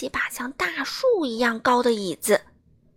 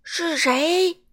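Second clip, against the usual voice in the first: loud, higher thundering demand; booming giant; 4 semitones higher, 6 dB louder than usual. A narrator's reading. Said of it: "巨人声如惊雷".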